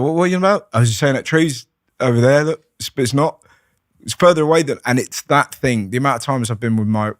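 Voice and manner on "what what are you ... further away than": excited. Retold or imitated. Acted confused exchange.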